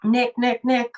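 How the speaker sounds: half-held-back scream, repeated quickly; retold scream. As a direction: imitate screaming for someone who won't respond. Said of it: "I'm screaming".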